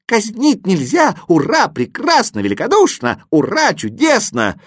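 high, exultant exclamations; overjoyed. A narrator's reading. Exclamation Mark celebrates the boy's pardon, overjoyed. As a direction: burst out in cheer after cheer. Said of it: "обрадовался восклицательный".

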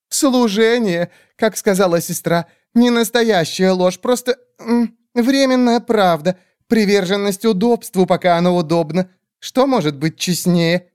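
fawning creature. Acted. Skeletal bird creatures grovelling before the great witch, high squeaky.

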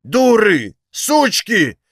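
high, loud furious bellow; frenzied yell. A narrator's reading. Old father bellowing at the women, furious. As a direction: roar at them in a rage. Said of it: "исступлённо заорал".

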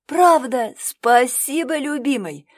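loud, high, delighted thanks; bursting with joy; overjoyed. A narrator's reading. Masha thanks Alexander for staying, overjoyed. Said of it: "Радости подруги не было предела".

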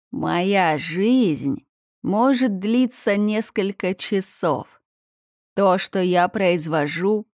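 slow, looming monster, pressing harder. Acted. Monster repeats riddle, louder.

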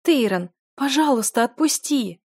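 desperate weeping plea; tearful begging. A narrator's reading. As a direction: beg him through sobs. Del begs through tears.

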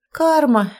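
high-pitched, sighed-out verdict; exhaled realization. A narrator's reading. Mother recognises history repeating itself, exhaling the word. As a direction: breathe it out as it dawns on you. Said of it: "выдохнула я".

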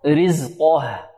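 رزقه slowly, heavy qaf then a thin, light ha; light final ha. Shown as a demonstration. Teacher showing students how to stop on the ha, careful demo. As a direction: stretch رزقه and release the ه lightly. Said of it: "الهاء هذه ترقق".

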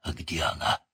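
hushed whisper. A narrator's reading. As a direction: whisper the question. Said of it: "говоривший почему-то шёпотом".

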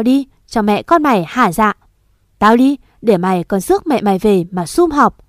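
a stepmother lashing out through tears; cry-yelling at the girl in front of the father; angry, tearful accusation. Acted. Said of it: "mụ vừa khóc".

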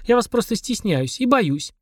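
shy, slow little confession; timid. A narrator's reading. Girl shrinking before the demon, slow timid confession. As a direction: shrink back and admit it slowly. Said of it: "сжалась в комочек Машка".

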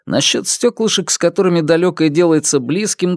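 usual speaking voice

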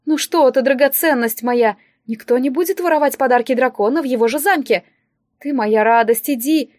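lightly theatrical soothing; doting dismissal. Acted. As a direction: coax them away with endearments. Distributor soothes and dismisses girl. (слегка театральное утешение)

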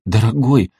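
startled, caught-out exclamation; choked surprise. A narrator's reading. Anastasia caught off guard by her husband, startled. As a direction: gulp it out, startled. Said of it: "поперхнулась Анастасия".

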